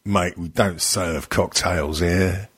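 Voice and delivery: slow, low gruff-pub barman act; mock barman. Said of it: "And Kat goes".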